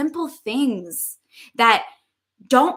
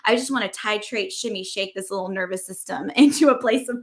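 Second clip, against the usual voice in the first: defiant; faster than usual. Retold or imitated. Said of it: "I'm like".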